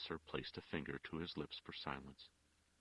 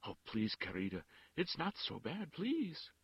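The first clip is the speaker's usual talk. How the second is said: miserable; 11 semitones higher, 4 dB louder than usual. A narrator's reading. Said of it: "turned to her miserably".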